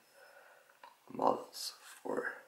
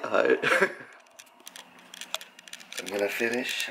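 calling out; 5 semitones higher, 9 dB louder than usual. Real, not acted. Greeting dad in other room.

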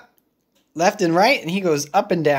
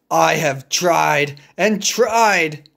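slow weary elephant voice; Gerald voice; slower than usual. Acted. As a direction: drag it out slowly like the tired elephant. Gerald frustrated.

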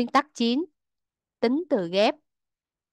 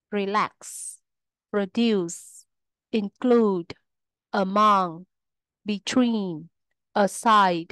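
word list with each second syllable stressed, as in reLAX, proDUCE, enJOY. Shown as a demonstration. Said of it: "trọng âm rơi vào âm tiết thứ hai".

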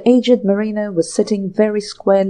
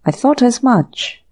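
stern demand; 4 semitones higher, 4 dB louder than usual. Acted. Inspector presses James for emerald.

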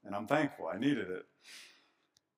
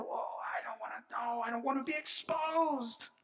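fearful avoidance; 11 semitones higher than usual. Pretend. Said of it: "We tend to".

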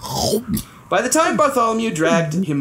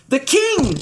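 panted; 8 semitones higher than usual. Acted. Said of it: "panted Bartholomew".

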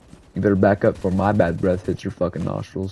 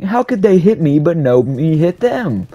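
slow, higher and louder broken caveman speech; caveman talk; 8 semitones higher, 6 dB louder, slower than usual. Pretend. Gamer mocking getting shot, caveman voice. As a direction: grunt it out like a Neanderthal. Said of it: "I'm speaking like a fucking Neanderthal".

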